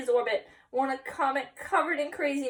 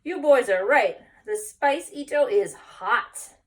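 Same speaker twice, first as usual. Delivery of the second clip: slightly out of breath; 3 semitones higher, 10 dB louder, slower than usual. Acted.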